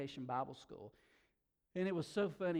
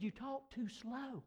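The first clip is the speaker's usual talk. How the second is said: slow, drawn-out and higher, in someone else's voice; imitating the bank lady; 9 semitones higher, 4 dB quieter, slower than usual. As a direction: lightly mimic the New York teller. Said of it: "She said".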